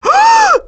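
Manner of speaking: sharp high excited gasp. Acted. Squirrel sees something amazing, high excited gasp. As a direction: gasp in delight.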